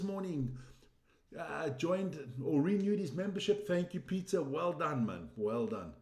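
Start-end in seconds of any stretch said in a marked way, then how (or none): 5.4-5.9 said again much lower; deep repeat. Real, not acted. To Peter, a much lower second well done. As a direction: drop the voice low for the repeat. Thanking member, repeats deeper.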